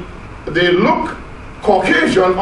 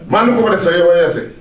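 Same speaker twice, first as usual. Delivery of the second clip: Jamaican Patois demo; much faster than usual. Shown as a demonstration. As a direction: show how Patois sounds in everyday talk. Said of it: "For example".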